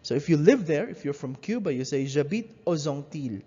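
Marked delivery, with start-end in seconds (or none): 2.0-3.4 aux Antilles said "o-zantil"; linked x as z. Shown as a demonstration. Teacher models the liaison for students, clearly. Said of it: "notice how the X is pronounced with an S sound".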